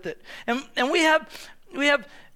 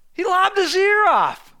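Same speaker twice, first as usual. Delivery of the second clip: amazed emphasis; 7 semitones higher, 5 dB louder than usual. Real, not acted. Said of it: "read scripture slower".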